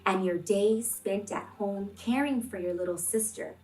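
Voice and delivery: expressive picture-book read-aloud; reading to children. Acted. Teacher reading a picture book aloud to kids, gently expressive. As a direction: read the story warmly to the class.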